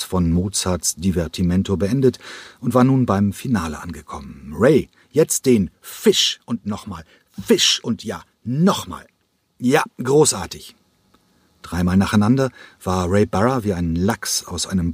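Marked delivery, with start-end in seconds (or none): 4.6-10.7 a touch higher, cheering the dancer on; calling out in rehearsal. A narrator's reading. Choreographer calling to his dancer during rehearsal, encouraging. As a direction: spur him on over the music.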